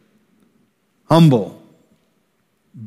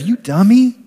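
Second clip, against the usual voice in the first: harsh scolding; 7 semitones higher than usual. Retold or imitated. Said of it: "Instead of".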